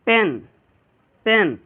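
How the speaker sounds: "पेन" with a short e; quick reading. Shown as a demonstration. Teacher models fast reading, short "पेन". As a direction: keep each "पेन" brief. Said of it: "एकदम जल्दी तेज़ी से पढ़ना है".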